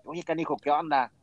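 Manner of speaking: just curious, not complaining; casual question. Retold or imitated. Greeting the friend who deleted him, easygoing and curious. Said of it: "no como reclamo, sino como pregunta".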